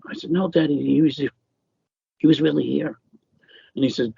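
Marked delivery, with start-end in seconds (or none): 0.3-3.0 retold pleading insistence, pitched up; child's protest. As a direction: imitate a child insisting to Daddy. Child protesting to disbelieving father.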